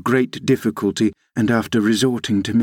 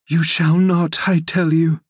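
desperate insistence; 7 semitones higher than usual. A narrator's reading. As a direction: insist desperately, drawing it out high. Catherine clinging, refusing his departure.

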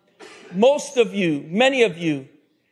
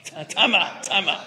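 stammering, halting disbelief; acted flustered double take; taken aback; 3 semitones lower than usual. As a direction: stumble over the words in mock shock. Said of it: "Hosea all of a sudden is like".

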